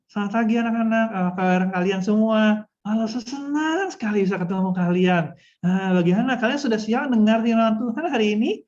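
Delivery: smiley teacher greeting with lips hardly parted; cheery hello squeezed through an unopened mouth; mumbling, mouth barely open. Shown as a demonstration. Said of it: "malu ya buka mulut".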